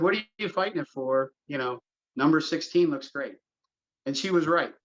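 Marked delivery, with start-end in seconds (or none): 0.0-3.4 light Long Island accent, mimicking a board member; a touch of Long Island accent, playfully imitated; Margaret's Long Island accent. Superintendent quotes a board member in a light Long Island accent. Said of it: "I'd like to do it in her accent".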